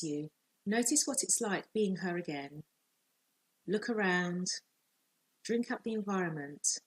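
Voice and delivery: calm, measured visualization voice with long pauses; guided meditation. Real, not acted. Coach leading listeners through a relaxing visualization, calm guided meditation. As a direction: guide them gently, phrase by phrase, leaving space to breathe.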